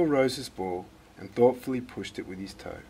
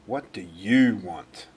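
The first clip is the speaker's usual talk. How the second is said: put-on slow, louder, grumpy old man; gruff demand; 6 dB louder, slower than usual. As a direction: drag it out like a grouch disturbed. Grumpy neighbour answers the door.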